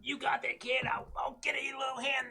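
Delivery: high, loud, hammed-up encouragement; put-on character voice. Player helping a kid reach the button, hammed-up. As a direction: pitch it up and egg the kid on.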